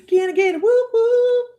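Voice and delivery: high, loud hype call. Real, not acted. Calling to the viewers for a hype response. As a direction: fire up the room.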